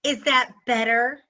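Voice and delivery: rhetorical question with a snarky lift; snarky, sarcastic. Retold or imitated. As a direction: quote it back with mocking sarcasm. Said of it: "the rhetorical, snarky, sarcastic".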